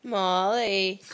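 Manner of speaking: calling the dog by name. Real, not acted. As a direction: call her name firmly.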